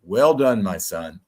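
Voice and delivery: calm sensei. Retold or imitated. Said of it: "you sounded like a sensei".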